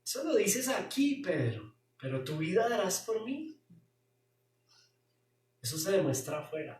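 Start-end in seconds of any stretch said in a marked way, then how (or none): 0.0-3.6 a touch of irony, higher at the start; lightly ironic rebuke. Acted. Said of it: "irónicamente". (leve ironía)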